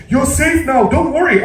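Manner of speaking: calling back. Acted. Horton reassures the mayor of the town, lightly called. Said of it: "Horton called back to the mayor".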